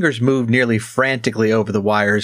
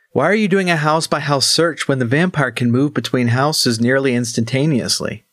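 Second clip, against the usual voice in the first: raised, puzzled little gnome; curious gnome voice; 4 semitones higher than usual. Acted. Gnome asking.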